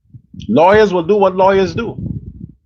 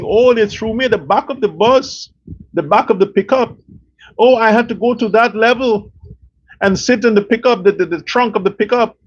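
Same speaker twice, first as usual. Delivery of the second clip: a lightly whiny higher voice mocking a complaint; mock whining; 4 semitones higher than usual. Vlogger mocks the jailed billionaire's complaint, mild mock whine. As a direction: whine it like a spoilt man sorry for himself. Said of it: "Like a fucking bitch, you're whining".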